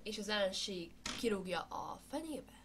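sports commentary. Pretend. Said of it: "én vagyok a kommentátor".

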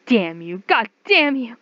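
rising to a loud curse; angry curse. Acted. Captive curses her captor, rising fury. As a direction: spit the curse at him.

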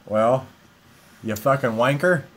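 bad British accent. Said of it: "you don't talk like a British person".

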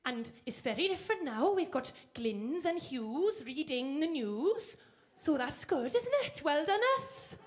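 put-on lilting Welsh accent. Accent tour, Welsh names.

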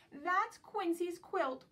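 high, loud and slow duck call; loud quacking call. Acted. Dotty telling everyone the dog has the quilt, slow loud high call. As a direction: sound the alarm like a duck. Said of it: "quacks Dotty".

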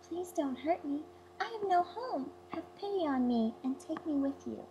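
a touch of fear in the plea; frightened plea. A narrator's reading. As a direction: beg them for mercy. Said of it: "she woke up in terror and cried out".

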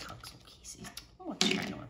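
breathy whispered musing. Real, not acted. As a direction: whisper it to yourself. Whispering to herself.

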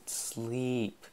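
softly insistent, drawn out; tender, quiet coaxing; insistent, loving. A narrator's reading. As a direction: press lovingly in a hushed voice. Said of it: "insistently, lovingly".

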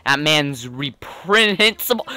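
a hint of a fussy, courteous gentleman; gentlemanly game character. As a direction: read the dialogue as a genteel detective, lightly voiced. Reads game character dialogue aloud.

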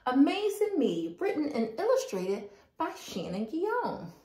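gentle storybook read-aloud; reading to children. Acted. Reads picture book to children.

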